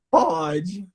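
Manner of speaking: a hint of a sulky boy, rising at the end; grudging, wary yes; imitating grudging kid. Coach mimics the boy agreeing grudgingly. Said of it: "Tipo assim, "Não vou gostar, mas pode".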